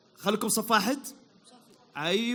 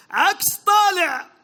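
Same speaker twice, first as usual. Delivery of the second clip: slow clue read; 5 semitones higher, 4 dB louder, much slower than usual. Acted. Reading the quiz clue.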